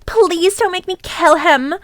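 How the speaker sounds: mildly pleading voice; a touch of mock begging; plead, without full desperation. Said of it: "I begged".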